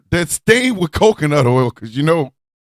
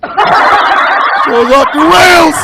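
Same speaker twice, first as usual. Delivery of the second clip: laughing exclamation; 10 semitones higher, slower than usual. Real, not acted. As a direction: cackle out the line in disbelief. Host laughing at chaos.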